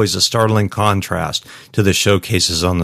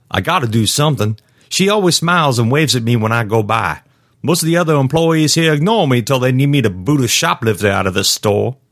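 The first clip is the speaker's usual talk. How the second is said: put-on higher-pitched, pleading young guard voice; earnest rookie guard; 6 semitones higher than usual. Rookie guard insisting he must help a woman, earnest. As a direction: protest earnestly, voice lifting as it goes.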